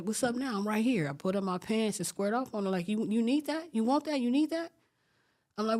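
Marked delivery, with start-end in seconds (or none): 0.0-1.1 raised pitch, squaring up; retold challenge. Teller confronts the girl who sent threats, challenging. 2.9-4.7 goading questions climbing in pitch; retold fight challenge. Squaring off on the first girl, retold taunting challenge.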